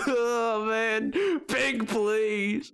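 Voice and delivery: hammed-up mournful cowboy accent; sad cowboy. Streamer begging Pink in a redeemed accent, sad cowboy voice. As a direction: plead like a sorry, put-upon cowboy. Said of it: "it's time for sad cowboy".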